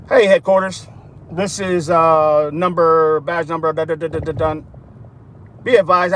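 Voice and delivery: low, matter-of-fact police radio report; cop radioing headquarters. Retold or imitated. Cop radioing headquarters after the traffic stop, routine report. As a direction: report in to dispatch like a bored patrol cop. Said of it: "Now I'm playing cop here".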